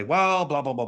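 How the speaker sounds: mildly put-on reaction, high start then falling; mock reaction. Speaker imitating another reaction to the news, mildly mocking. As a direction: imitate someone launching into an opinion. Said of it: "how do they react? They say".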